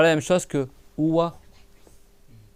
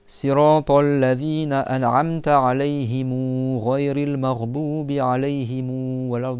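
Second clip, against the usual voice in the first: slow, drawn-out chanted recitation; chanting the end of the Fatiha slowly; Quran recitation; slower than usual. Acted. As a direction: recite it slowly, holding the long vowels. Recites the verse.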